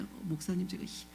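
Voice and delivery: low, hushed, over-composed confession; imitating placid, pious speech; mock pious politeness. Shown as a demonstration. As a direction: voice hardship far too nicely, like a recitation. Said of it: "저한테 그렇게 말씀하시겠어요?".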